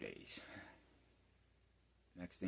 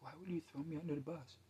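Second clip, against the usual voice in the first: mock betrayal; 11 semitones higher than usual. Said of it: "I was like".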